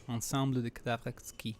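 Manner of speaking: Ensemble de Cadavres Exquis in bad French; broken French. Real, not acted. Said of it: "Sorry about my bad French".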